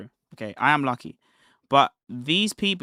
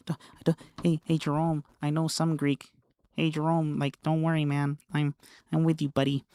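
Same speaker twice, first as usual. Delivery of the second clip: softer, pleading mock of a needy debater; lightly voiced wheedling; begging imitation; 4 dB quieter than usual. Streamer mocks the opponent as a beggar, soft pleading imitation. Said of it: "This is so beggish".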